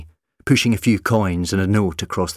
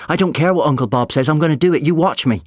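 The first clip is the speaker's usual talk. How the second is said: put-on raised, loud, defiant boy; determined; 8 semitones higher, 6 dB louder, faster than usual. A narrator's reading. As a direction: declare it with stubborn resolve. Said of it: "he told them with determination".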